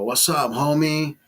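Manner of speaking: lightly imitated barrio greeting; mock barrio homie. Man mocking Mexican film roles, mock barrio homie. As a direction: give a hint of movie cholo. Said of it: "They want you to talk like that".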